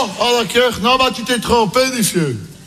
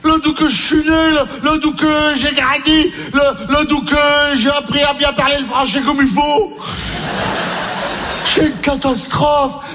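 mock lament; 5 semitones higher than usual. Lamenting Ch'ti character.

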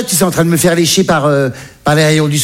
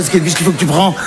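exasperated echo. Acted. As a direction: throw the question back in your own voice. Son echoes mother's question back.

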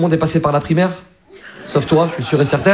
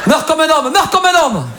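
put-on Marseille accent; 8 semitones higher than usual. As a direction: shout it like a Marseille guy. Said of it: "C'est ça, l'accent". (accent marseillais exagéré)

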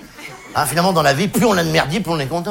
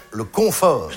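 "confort" slowly, with the "con" leaned on; stress on first syllable; 3 semitones lower, slower than usual. Shown as a demonstration. Comedian naming the life of hoarders, stress on "con" in "confort". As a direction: make the "con" in "confort" stand out. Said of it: "la première syllabe est très claire".

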